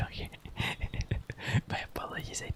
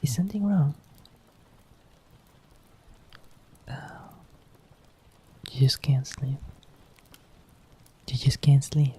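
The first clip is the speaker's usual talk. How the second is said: tender partner whispering at night; hushed bedtime partner; whispering girlfriend roleplay; 4 semitones higher, 11 dB louder, slower than usual. Acted. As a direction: coax a sleepy loved one in a whisper.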